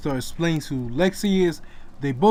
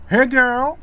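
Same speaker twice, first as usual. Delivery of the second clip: excited greeting; 8 semitones higher, 6 dB louder than usual. Acted. Friend greets at door.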